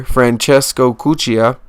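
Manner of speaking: slowed name in a mixed Mexican-Italian accent. Shown as a demonstration. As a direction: attempt Italian, let a Mexican accent slip through. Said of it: "my Mexican accent mixed with the Italian accent".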